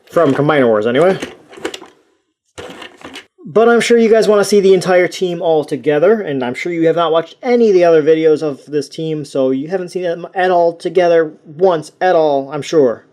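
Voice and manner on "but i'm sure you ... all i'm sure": dry sarcasm, heavy stress on sure; sarcastic. Acted. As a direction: lay the sarcasm on thick. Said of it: "he said sarcastically".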